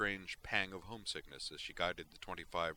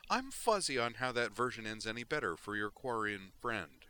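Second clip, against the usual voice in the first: mock-puzzled sarcasm; sarcastic; 5 semitones higher, 4 dB louder than usual. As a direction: needle him with fake confusion. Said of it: "said sarcastically".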